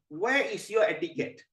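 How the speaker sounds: high, slow, indignant reproach; angry scolding. Acted. Shiva scolding empty-handed Narada, angry. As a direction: demand an answer, affronted. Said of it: "Lord Shiva, you're very angry".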